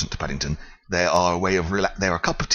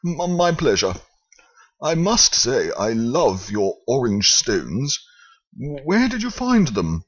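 Trugg gushing; 5 semitones higher than usual. Acted. Trugg voiced.

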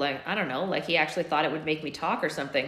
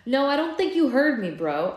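good-natured; 7 semitones higher, 5 dB louder than usual. A narrator's reading. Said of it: "keeping my tone good-natured".

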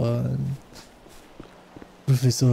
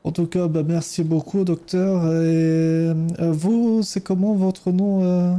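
put-on Ukrainian accent; 4 semitones higher than usual. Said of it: "mon superbe accent ukrainien".

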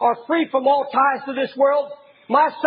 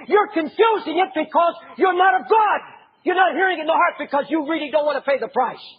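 rebuking shout. Retold or imitated. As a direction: scold them for not listening.

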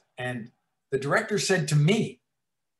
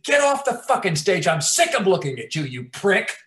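retold yell; 3 semitones higher, 3 dB louder than usual. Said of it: "I said".

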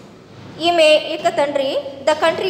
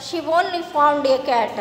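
slow, deliberate story reading; measured classroom narration with pauses; textbook read-aloud; much slower than usual. A narrator's reading. Reads the English textbook story aloud.

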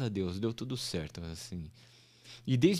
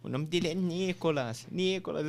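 imitated insisting wife; 4 semitones higher than usual. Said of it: "ela fica tentando".

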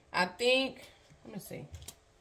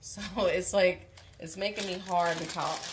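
slightly slurred speech; talking with a retainer; retainer in mouth. Real, not acted. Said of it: "I'm talking weird because I have my retainer in my mouth".

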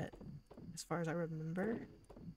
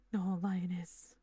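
hushed dramatic whisper; much slower than usual. Acted. Gus catches Linus, dramatic.

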